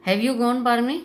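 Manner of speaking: furious disbelief; angry shout. Retold or imitated.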